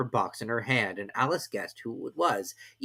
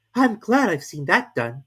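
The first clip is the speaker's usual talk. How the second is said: Alice musing; 8 semitones higher, 8 dB louder, slower than usual. A narrator's reading. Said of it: "thought Alice".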